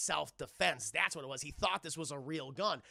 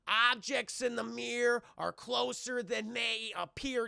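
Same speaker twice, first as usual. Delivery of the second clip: slow, pitched-up ominous quote; mock warning; 5 semitones higher, slower than usual. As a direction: read the warning with slow drama.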